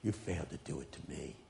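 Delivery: soft solemn recitation of the judgment; hushed echoing voice. Retold or imitated. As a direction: speak like a voice from far down time. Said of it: "he says".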